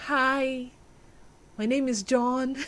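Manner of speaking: very soft, bashful hello; mock shy introduction. Acts shy first meeting in film.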